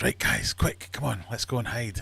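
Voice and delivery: lightly acted, hurried rallying call; urgent Englishman. Englishman urging his mates to hide, mildly urgent. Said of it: "And the Englishman says".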